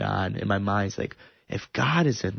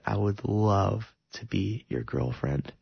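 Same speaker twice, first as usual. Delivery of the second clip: slow, tender retold yes; gentle acceptance; 4 dB quieter than usual. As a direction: accept slowly and softly, savouring it. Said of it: "M J is very gentle".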